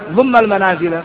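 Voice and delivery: ضم المنازل with the mim said dumma; Arabic: ضمَّ بالفتح; fatha on dumm. Shown as a demonstration. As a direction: end ضم on an a sound, dumma. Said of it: "ثلاث أوجه".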